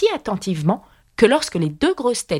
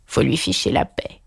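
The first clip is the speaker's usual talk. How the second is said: out of breath. Acted. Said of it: "toute haletante".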